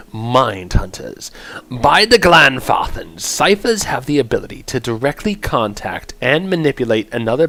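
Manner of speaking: measured, theatrical announcer read; lightly grand storybook-style introduction. Acted. Streamer reads out the chanter class lore, announcer voice.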